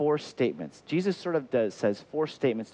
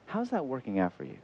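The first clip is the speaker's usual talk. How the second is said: Jesus gently asking; 6 dB quieter than usual. Acted. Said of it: "He says this".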